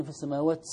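السماوات with its taa hissed like a seen; demonstrated error. Shown as a demonstration. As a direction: let the taa of السماوات hiss like s. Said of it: "زادت كأنها سين".

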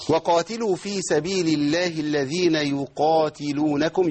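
slow chanted verse, qaf clear; teacher recites verse as model; slow recitation. Shown as a demonstration. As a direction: intone slowly with firm qaf. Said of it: "لابد من بيان القاف قوي".

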